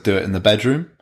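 retelling a mildly dismissive retort; offhand brush-off, lightly acted. Boyfriend retelling his reply to her complaint, mildly dismissive. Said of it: "kind of dismissively".

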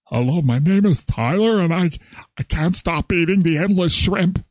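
lightly voiced support group confession; a hint of a shy addict confessing. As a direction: introduce yourself at a support meeting. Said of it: "support group".

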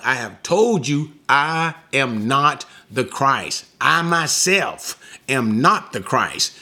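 deliberate emphasis on each key word, as if restating a fact; emphatic restatement. Retold or imitated. Preacher voicing John's reminder to his followers, emphatic. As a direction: stress YOURSELVES, MYSELF and NOT, drawing out the opening. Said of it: "simply putting emphasis on this fact".

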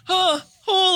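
high strained moans; imitated desperate moan; straining moan. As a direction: groan as if holding it in. Straining to hold it in.

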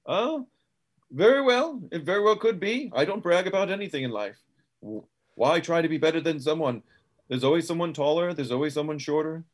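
lightly voiced game character. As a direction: concede it airily, easing down into advice. Plays Quentin in game scene.

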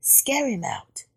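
slow, soft stage whisper. A narrator's reading. Frog plotting with Rabbit, whispering. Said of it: "Frog whispered".

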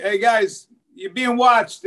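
mock shout up at the roof; calling out to thieves. Son on the roof warning copper thieves, mock shout. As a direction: call out a warning, half-hearted yell. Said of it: "He's like".

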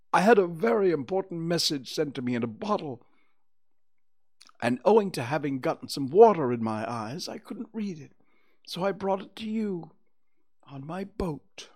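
high bear character voice; proud Pooh Bear. Acted. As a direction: report importantly as a little bear.

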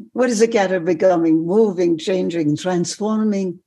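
put-on emphatic French-accented wonder, slowing at the end. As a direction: marvel aloud in a French accent. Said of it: "in a French accent".

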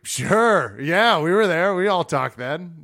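loud, eager agreement. Retold or imitated. Eager quote to champion.

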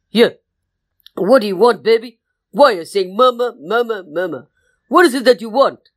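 busy mother questioning her little one; mama bear. Acted. Mama bear answers her pleading baby, motherly and insistent. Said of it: "that's how her voice goes".

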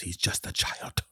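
slow, breathy, almost whispered plea; gently pleading for the child; mock soft plea. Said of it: "Peter goes".

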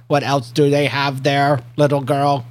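a hint of a curious alien kid. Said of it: "I forgot my alien voice".

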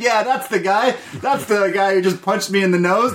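high, mocking hick voice; redneck bully voice. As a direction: ham up a dumb redneck pointing someone out. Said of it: "they're like".

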